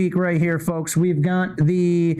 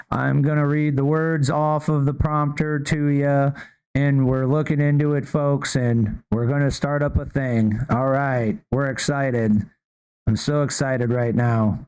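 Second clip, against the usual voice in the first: lower, dry, uninspired prompter reading; mock a bored official reading off the prompter; dry Scott Bessent; 6 semitones lower than usual. Host mocking Bessent reading words off the prompter, low and dry. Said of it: "he's like".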